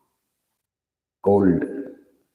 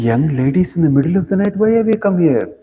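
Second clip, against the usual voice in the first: moralizing; 6 semitones higher, faster than usual. Acted. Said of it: "He started speaking moral, ethical things".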